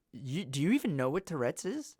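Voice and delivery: incredulous question, pitch swinging up and down; retold stunned disbelief, mildly acted; dumbfounded. Student questioning a teacher who doubts his Tourette's, dumbfounded. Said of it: "I'm, like, dumbfounded".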